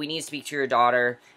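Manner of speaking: plain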